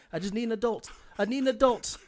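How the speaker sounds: high, pleading mock wife begging for an adult; desperate wife on the phone. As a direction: whine it like she's escaping the kids. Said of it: "sounding like a kid trying to get away".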